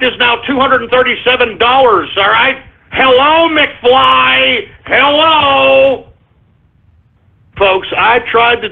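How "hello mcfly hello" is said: a hint of a mocking bully; knock-knock on a thick head, lightly; mild mocking hello; Back to the Future taunt. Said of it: "McFly reference".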